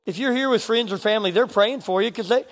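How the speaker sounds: hushed sermon invitation. Acted. Altar call, quiet appeal.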